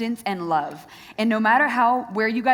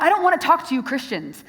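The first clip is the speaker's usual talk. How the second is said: imitating a defiant girl; 4 semitones higher, 5 dB louder than usual. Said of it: "She had everything expressive".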